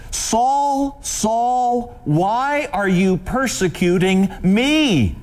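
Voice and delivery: a high, calling voice from heaven; voice of Jesus. Acted. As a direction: call out to him from above, pleading. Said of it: "he hears this voice".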